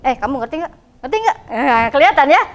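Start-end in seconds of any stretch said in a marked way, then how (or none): 0.1-1.4 offhand check, jumping up on the repeat; insincere asking. Shown as a demonstration. Teacher showing students how insincerity sounds, insincere asking. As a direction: ask without sincerity, pressing on the repeat. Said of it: "Kan kelihatannya beda ya intonasinya ya".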